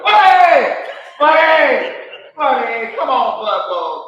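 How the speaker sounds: high, loud calls fading; shouting for the dog. Retold or imitated. Driving round the neighborhood, he yells for his dog. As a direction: yell out the car window for the lost dog. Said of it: "yelling out the window".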